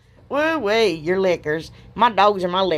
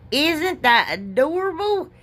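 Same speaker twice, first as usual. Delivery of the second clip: gushing; 8 semitones higher, slower than usual. Real, not acted. Admiring finished gnome.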